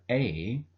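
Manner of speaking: A said "uh", a short neutral vowel; schwa A. Shown as a demonstration. Teacher showing how the article is pronounced, schwa "uh". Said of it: "is pronounced as a".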